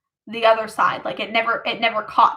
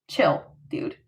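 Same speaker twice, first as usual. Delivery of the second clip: soft whispered aside, much lower; whispered chill; 7 semitones lower, 6 dB quieter than usual. Retold or imitated. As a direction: hush him like a parent calming a hothead. Family telling him to calm.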